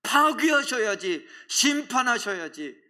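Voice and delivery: mock outrage, high and drawn out; lightly hammed-up indignant complaint; retold angry protest. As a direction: protest slowly, stretching each demand. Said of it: "화를 냅니다".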